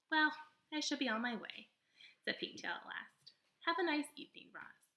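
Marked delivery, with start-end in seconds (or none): 0.1-1.7 high, lively possum voice, theatrical; a showy little stage actor of a possum; possum character voice. Acted. Possum boasting to the robot, high and theatrical. 3.6-4.9 high, lively possum voice, theatrical; a showy little stage actor of a possum; possum character voice. Acted. Possum boasting to the robot, high and theatrical.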